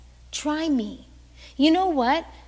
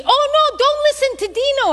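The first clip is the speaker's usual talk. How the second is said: very high, loud, quick mock protest; hammed-up imitation of an insistent relative; alarmed objection; 12 semitones higher, 9 dB louder, faster than usual. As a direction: jump in to warn them off. Relative warning her, acted out.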